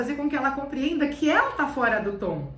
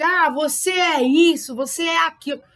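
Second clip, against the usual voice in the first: mock insult; 3 semitones higher, 7 dB louder than usual. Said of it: "hábito de ofender mesmo".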